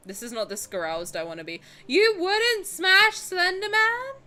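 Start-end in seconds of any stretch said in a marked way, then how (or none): 1.9-4.2 high, loud, drawn-out disbelief; incredulous question. Real, not acted. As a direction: challenge them in loud astonishment. Mock disbelief at viewer's verdict.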